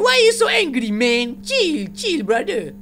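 high teasing plea to calm down; playful mock calming; mock soothing. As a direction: tease the monster to chill out. Teasing the angry monster.

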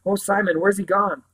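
put-on a scared girl clinging to her brother; quavering fear. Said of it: "Her voice quavered in spite of itself".

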